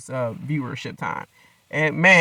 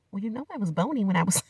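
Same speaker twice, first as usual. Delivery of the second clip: mocking Gino; 5 semitones higher, 4 dB quieter than usual. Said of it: "He's like".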